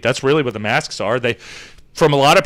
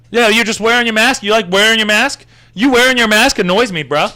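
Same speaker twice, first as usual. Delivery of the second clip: raised pitch, sneering questions; mocking heckler; 6 semitones higher than usual. Scene: mimicking a guy nagging a masked hiker, sneering. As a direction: play the nosy guy jeering about the mask.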